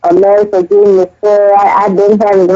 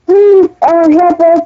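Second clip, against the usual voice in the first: mock pleading; 7 semitones higher than usual. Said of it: "they were telling y'all".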